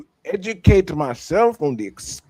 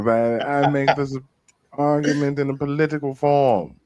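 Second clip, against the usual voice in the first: hammed-up old English accent, louder, grand; mock Elizabethan English accent; 5 dB louder than usual. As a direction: read it like a pompous Elizabethan noble. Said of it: "that English Elizabethan accent".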